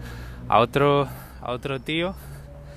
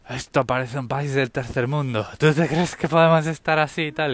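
grumbling. Retold or imitated.

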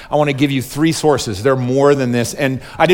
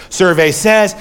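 raised, louder game-show catchphrase; game show host; 4 semitones higher, 3 dB louder, slower than usual. Acted. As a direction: call it out like a quiz host. Mimics game show host's catchphrase.

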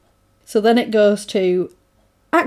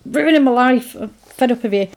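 mock argument; 3 semitones higher, faster than usual. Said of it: "have a massive argument".

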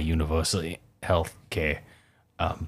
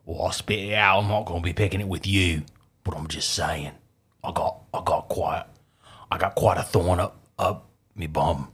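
hammed-up British-Australian accent; put-on British-Australian accent. Podcaster teasing co-host, put-on British-Australian accent. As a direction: pick a mock quarrel in a fake British-Australian accent. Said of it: "before I lose my accent".

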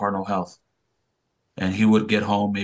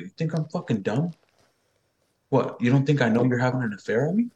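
imitated indignant wife, pitched up; higher, challenging questions; angry accusation; 5 semitones higher than usual. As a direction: act out a wife who's been wronged. Mother accusing father of affair.

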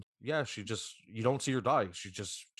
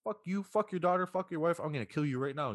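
high, raised angry snarl; furious threat; 7 semitones higher than usual. Retold or imitated. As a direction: spit the threats at the old man. Eric attacks Paul in water.

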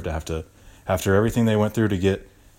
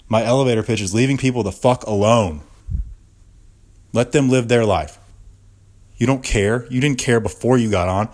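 angry rant; 3 semitones higher, 4 dB louder than usual. Acted. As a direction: keep pushing, getting more heated. Ranting at the lady.

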